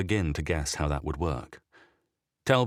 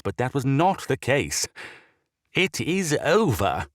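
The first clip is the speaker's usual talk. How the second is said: frustrated; 6 semitones higher than usual. A narrator's reading. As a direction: voice shaking with frustration. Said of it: "Sinclair's voice shook with frustration".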